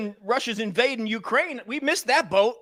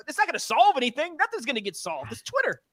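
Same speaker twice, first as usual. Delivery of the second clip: exasperated scoff; 4 semitones higher than usual. Retold or imitated. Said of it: "you're like".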